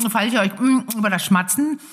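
talking around a throat lozenge; lozenge in mouth. Real, not acted. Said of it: "ich sitze mit dem Salbei-Bonbon".

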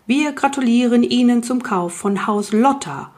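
put-on manual-reading voice; reading aloud. A narrator's reading. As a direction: read it out like an official announcement. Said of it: "las laut aus der Anleitung vor".

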